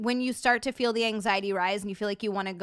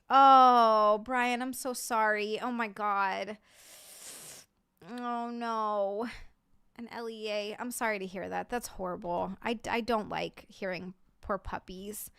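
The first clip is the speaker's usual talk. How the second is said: real hushed sorrow for someone's loss; slower than usual. Real, not acted. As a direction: console a friend gently, voice dropping. Consoling a viewer over a loss.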